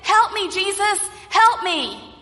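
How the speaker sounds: high, pleading call. Acted. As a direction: call out to Jesus in earnest. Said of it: "But this time he's saying".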